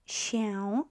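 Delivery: "się" drawn out with nasal ę at the end; slow, full nasal. Shown as a demonstration. Teacher pronouncing the word slowly, full nasal "się". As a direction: stretch "się" into "sheh-oon", keeping the nasal tail. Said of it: "if I pronounce this word slowly".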